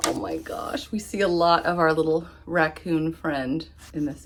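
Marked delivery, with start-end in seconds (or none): none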